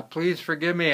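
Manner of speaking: high plea for forgiveness; pleading. Acted. Ashamed gardener begging to be forgiven, pleading. Remorseful gardener begs from cave.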